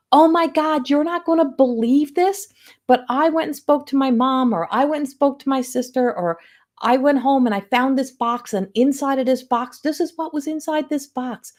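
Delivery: excited retelling. Retold or imitated. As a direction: play the thrilled client who can't believe it. Thrilled client's message retold.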